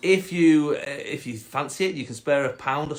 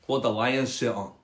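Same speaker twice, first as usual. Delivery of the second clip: curious Scottish frog; 3 semitones lower than usual. Acted. Frog quizzing the cat, Scottish accent. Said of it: "a Scottish frog".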